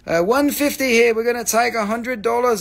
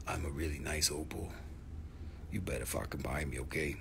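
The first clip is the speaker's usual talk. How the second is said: talking opal voice; 17 dB quieter than usual. Pretend. Opal speaks in creepy low voice.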